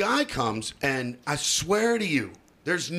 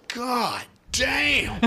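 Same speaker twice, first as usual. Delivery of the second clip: put-on baby cussing; 7 semitones higher than usual. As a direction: shout it like a toddler who just hit his finger. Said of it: "and he goes".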